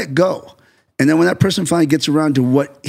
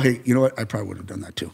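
conciliatory; 3 semitones lower, 7 dB quieter, faster than usual. Retold or imitated. Director retelling how he softens criticism afterwards, conciliatory. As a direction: voice dropping low and quiet.

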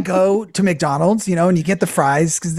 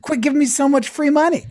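mock protest; 5 semitones higher than usual. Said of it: "I'm like".

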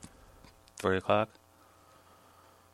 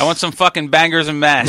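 hammed-up British food order; badly faked British accent, louder; 3 semitones higher, 5 dB louder than usual. Joking about visiting a British friend, bad British accent. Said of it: "Your accents are fucking terrible".

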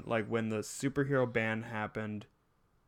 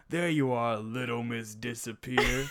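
slow, lightly voiced taunting henchman; quoted movie guard; slower than usual. Quoting the guard who traps Violet, slow mock taunt. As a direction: draw it out as a mild taunt.

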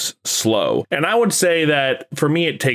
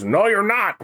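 Watto voice; 8 semitones higher than usual. Retold or imitated. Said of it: "when he goes".

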